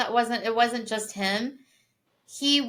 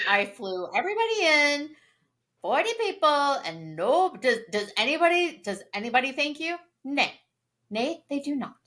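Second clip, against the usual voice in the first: hammed-up self-pitying complaint, pitched higher; mock aggrieved hero; 4 semitones higher than usual. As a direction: whine it like a wounded host fishing for thanks. Voicing the character's birthday-party complaint.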